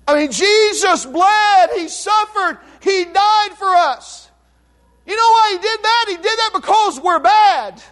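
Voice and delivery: impassioned revival preaching; preaching at full force. Acted. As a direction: drive the cross home to the congregation.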